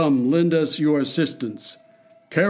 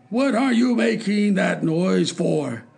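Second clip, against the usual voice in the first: higher, slow, angry king; furious demand; 6 semitones higher than usual. Acted. The king turns on the dwarf, slow furious demand. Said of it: "demanded the king".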